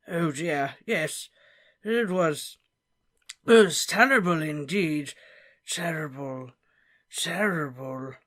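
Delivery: lightly voiced old professor, mournful; a fussy old wizard, genuinely sorry; Slughorn. Slughorn lamenting the death of Harry's parents.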